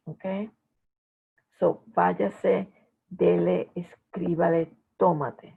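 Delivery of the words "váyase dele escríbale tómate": váyase, dele, escríbale, tómate, punched on VÁ, DE, CRÍ, TÓ; accented syllable stressed. Shown as a demonstration. Teacher showing students where the accent goes, stressing VÁyase, DEle, esCRÍbale, TÓmate. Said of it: "the accent, uh, goes".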